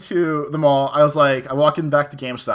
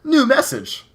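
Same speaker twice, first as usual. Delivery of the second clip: higher robotic phone announcement voice; imitating phone voice; 8 semitones higher, slower than usual. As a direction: chirp it like the Sidekick's alert. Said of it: "it goes".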